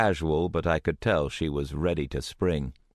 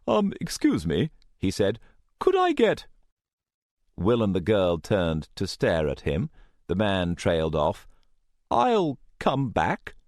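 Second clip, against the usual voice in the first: timid middle-aged man; 2 semitones higher than usual. Acted. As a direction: nervously interrupt. Timid customer interrupts.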